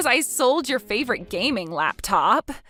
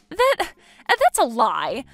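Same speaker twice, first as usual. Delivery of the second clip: stammered denial; 3 semitones higher, slower than usual. Acted. In-law refusing to believe.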